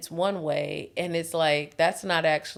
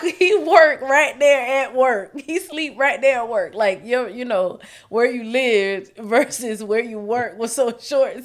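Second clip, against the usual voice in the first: much higher, exasperated mock rant; mock indignant complaint; 7 semitones higher, 9 dB louder than usual. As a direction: play her old annoyed self, higher and much louder. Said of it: "Versus me saying".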